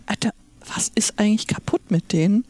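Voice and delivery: quick exasperated whisper. Real, not acted. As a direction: whisper it in disbelief. Exasperated aside about AfD.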